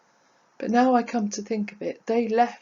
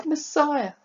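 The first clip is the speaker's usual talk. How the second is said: lightly acted acclamation, raised at the start; crowd calling out. Crowd hailing Jesus, calling out. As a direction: proclaim it like one of a crowd, mildly raised. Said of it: "shouting his name, calling".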